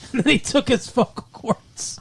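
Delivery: breathy whisper broken by giggles; laughing whisper. Real, not acted. Host cracking up at his own dark joke, laughing whisper. Joking about a gruesome cartoon plot.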